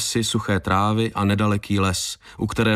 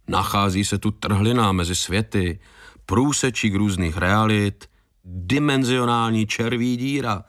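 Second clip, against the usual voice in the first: disgusted listing. Acted. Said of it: "znechuceně přitom kroutil hlavou".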